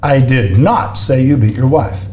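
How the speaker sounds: slow take of the sentence, one word leaned on; walk through the line slowly, moving the emphasis; slow emphasis-shifting demo; shifting stress demo. Shown as a demonstration. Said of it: "Changes every time".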